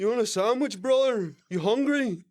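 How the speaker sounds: high, loud fake-caring influencer; loud pushy charity for the camera; mock influencer. An influencer offering a sandwich on camera, high and loud. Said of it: "picture you're the boy".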